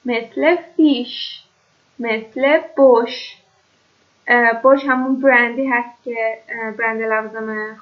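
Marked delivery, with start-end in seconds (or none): 0.8-1.4 «فیش» slowly, ending on a long "sh"; sch as "sh". Shown as a demonstration. 2.8-3.4 «بوش» slowly, ending on a long "sh"; sch as "sh". Shown as a demonstration.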